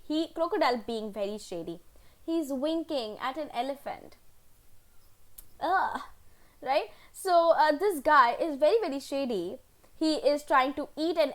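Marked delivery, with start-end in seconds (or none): 5.6-6.0 short higher-pitched groan of disgust; recoiling little groan; disgusted ugh. Real, not acted. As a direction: let out a brief "ugh". Disgust at winking crocodile.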